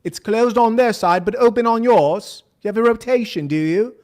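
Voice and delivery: light mock British interviewer accent; a hint of a British accent, quizzing; British accent impression. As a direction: imitate the British interviewer, pressing him. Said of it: "in his British accent".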